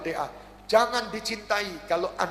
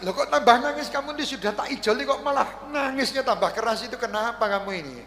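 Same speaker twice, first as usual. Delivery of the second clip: loud, high disbelieving "why are you crying more?"; baffled outcry; 7 semitones higher, 4 dB louder than usual. Acted. Helper demands why the crying man cries harder, loud baffled outcry. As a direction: cry out in puzzled disbelief.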